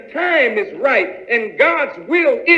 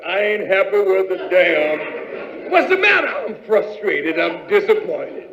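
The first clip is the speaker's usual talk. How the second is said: unhappy spouse; 5 semitones lower than usual. Acted. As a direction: sulk it out.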